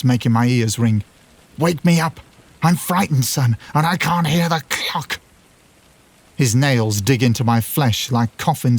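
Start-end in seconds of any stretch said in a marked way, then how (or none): 1.6-5.2 frightened high yell; father's yell. A narrator's reading. Dead father yelling at his son to wake him. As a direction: yell it out in terror. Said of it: "My father's voice yells".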